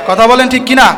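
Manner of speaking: কিনা shouted out to the crowd; calling out. Real, not acted. Preacher urges the audience to reply, calling out. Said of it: "repeated louder call".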